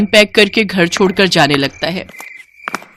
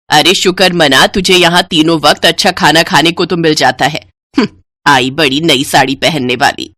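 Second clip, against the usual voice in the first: scornful mother-in-law; 2 semitones lower than usual. Acted. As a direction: belittle her for wanting a sari. Mother-in-law scorns elder bride.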